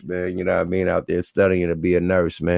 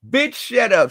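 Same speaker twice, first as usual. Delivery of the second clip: mock put-down; 13 semitones higher, 4 dB louder, slower than usual. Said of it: "That's what you gotta say".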